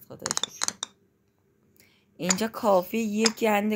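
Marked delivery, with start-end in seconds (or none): 0.1-0.7 whispered thanks. Real, not acted. Relieved thanks trailing to whisper.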